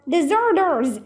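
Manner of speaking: high accusing shout; shouted accusation. Acted. Soldier shouting at the fleeing children, accusing. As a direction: call out the runaways. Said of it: "someone shouted".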